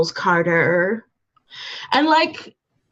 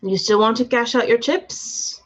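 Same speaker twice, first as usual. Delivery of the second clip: bad heavy Russian accent; 2 semitones higher than usual. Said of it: "in my bad heavy Russian accent".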